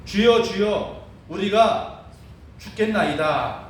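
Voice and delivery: mild imitated cry for help, slowing at the end; crying out, retold. Disciples crying out to Jesus in the storm, mild mock shout. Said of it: "소리를 지르면서".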